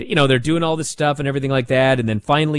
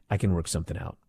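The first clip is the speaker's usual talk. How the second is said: much lower, softer trailing mumble; mock Ava dodging the question; vague Ava; 10 semitones lower, 11 dB quieter, much faster than usual. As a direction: say it vaguely, no plan. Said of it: "And Ava goes".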